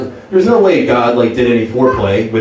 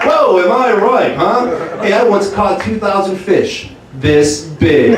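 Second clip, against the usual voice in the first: higher, upbeat club-comic patter; stand-up comic Jesus; 6 semitones higher, slower than usual. Retold or imitated. Jesus on the cross opening his comedy set. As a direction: work the room like a cheesy headliner. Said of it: "ultimate stand-up comedian".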